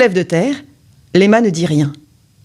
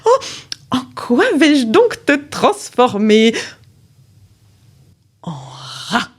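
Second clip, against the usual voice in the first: wicked sorceress; 4 semitones higher, slower than usual. Acted. The sorceress wonders what to turn the girl into, slow and gloating. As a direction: muse cruelly over which spell to cast. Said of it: "méchant sourire".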